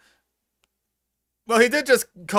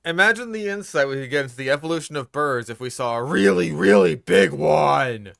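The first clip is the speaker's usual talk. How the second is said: sarcastic. Retold or imitated. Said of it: "Imagine the insights we would gain".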